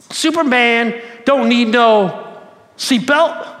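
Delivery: slow, loud boastful drawl; slow cocky Muhammad Ali impression. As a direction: boast it like the champ, slow and proud. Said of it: "he says it in his normal Muhammad Ali way".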